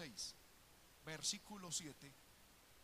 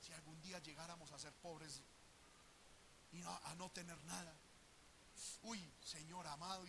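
soft, fretful sigh of a worried rich couple; 3 semitones lower, 8 dB quieter than usual. Retold or imitated. Job and wife fretting in prosperity, soft worry. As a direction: hush it like anxious prosperous folks. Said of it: "decían".

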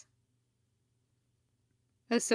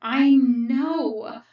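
loud retort; 2 semitones higher, 8 dB louder than usual. Acted. Anakin answering in the heated argument.

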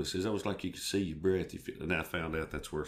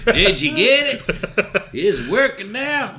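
high, loud, laughing through words; 15 dB louder, slower than usual. Real, not acted. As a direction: laugh while asking. Laughing at the joke.

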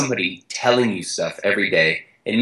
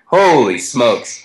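slow, drawn-out holy smokes, a bit louder; stunned inner thought; 4 dB louder, much slower than usual. Retold or imitated. Ashton hearing it is the world record, slow and stunned. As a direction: let it sink in slowly, amazed. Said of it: "I thought".

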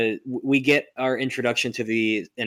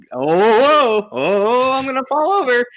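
much higher, louder hammed-up panic; bumbling Max Dillon; 14 semitones higher, 9 dB louder than usual. Mocking Max stumbling through a crowd, high and hammy. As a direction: squeal like a clumsy nerd.

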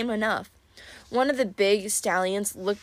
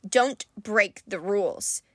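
warning; slower than usual. Acted. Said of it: "Euryton warned us".

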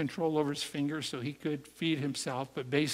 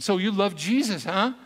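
smug; 5 semitones higher, 6 dB louder than usual. Retold or imitated. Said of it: "You know, he's all smug".

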